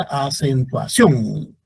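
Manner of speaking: "acentuación" slowly, landing hard on CIÓN; a-cen-tua-CIÓN, weight at the end; stress on last syllable. Shown as a demonstration. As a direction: stretch the final CIÓN of "acentuación". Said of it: "la sílaba tónica es sion".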